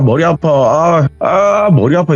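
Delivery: mild mock whine of a headachy boy; whiny kid yell. Boy complaining to the narrator of a headache, whiny. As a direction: whine and cry out about a headache. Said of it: "이렇게 소리를 지르는데".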